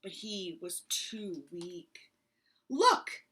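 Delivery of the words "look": wheezing. Acted. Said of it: "Bear wheezed".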